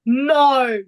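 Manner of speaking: put-on loud "No" in an English accent; failed Australian impression, landing in an English accent. Co-host retelling the driver's denial, loud English-accented "No". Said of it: "you said that in just, like, an English accent".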